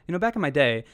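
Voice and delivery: put-on quick, casual old-timer line; too fast, offhand. Shown as a demonstration. Co-host showing how a student gets it wrong, too fast. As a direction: toss it off with no buildup. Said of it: "if you say it too fast".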